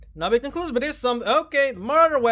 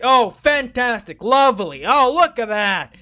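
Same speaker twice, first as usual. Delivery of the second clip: sarcastic; 2 semitones lower, 4 dB louder than usual. Real, not acted. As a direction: drag out mock delight. Player mocking the pointless puzzle.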